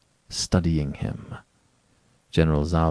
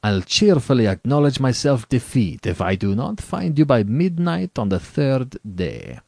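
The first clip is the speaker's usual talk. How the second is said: raised, lively general's voice; confident general; 5 semitones higher, 3 dB louder than usual. Acted. General promising to admit defeat by the third day, confident. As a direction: lay out the wager with assurance. General states his terms.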